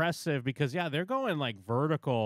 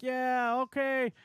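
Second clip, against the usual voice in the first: much higher, loud chirpy yes; mock eager agreement; 12 semitones higher, 3 dB louder, much slower than usual. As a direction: fake enthusiasm from the crew. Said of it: "they're like".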